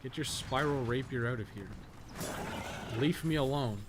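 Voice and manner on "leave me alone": normal talking voice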